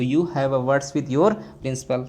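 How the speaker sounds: slow, word-by-word example; slow classroom dictation; slow dictation pace. Shown as a demonstration. Teacher dictating an example sentence.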